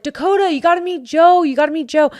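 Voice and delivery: high, eager introduction; loud, high, insistent hail; excited calling over. Retold or imitated. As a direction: call a friend over, pitched right up. Friends call Dakota over.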